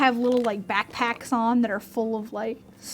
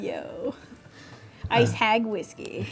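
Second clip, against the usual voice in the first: ad voiceover; 5 dB quieter, slower than usual. Pretend. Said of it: "there'd be, like, a commercial".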